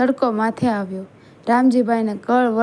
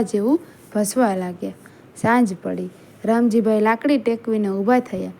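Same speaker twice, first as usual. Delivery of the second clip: measured, unhurried storytelling; story narration. A narrator's reading. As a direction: read it as a solemn story, pausing between phrases.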